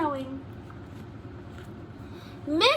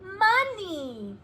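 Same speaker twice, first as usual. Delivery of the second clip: shouted realization; 6 semitones higher, much slower than usual. A narrator's reading. Pupils to teacher, shouting the correction. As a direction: call out the realization, slowing at the end. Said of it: "we shout".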